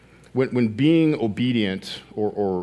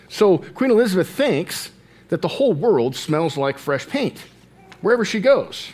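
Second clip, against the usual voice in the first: emphatic retelling; 8 semitones higher, 4 dB louder than usual. Acted. Preacher retells joke with emphasis.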